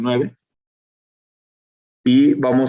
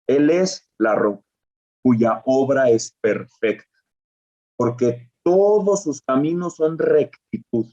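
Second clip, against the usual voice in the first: reading Deuteronomy aloud to the class; solemn scripture reading; slower than usual. Shown as a demonstration. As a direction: proclaim the verse slowly, reverently. Reads Deuteronomy 32:4.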